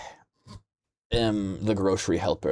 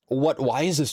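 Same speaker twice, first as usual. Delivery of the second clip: high rising disbelief; incredulous; 5 semitones higher than usual. Real, not acted. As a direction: ask it in total disbelief. Repeats louder, higher.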